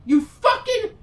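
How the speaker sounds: high, loud, laughing outburst; hammed-up furious yell at the movie; mock outrage. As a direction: blow up at the screen half-laughing. Mock outburst at Orko's ending.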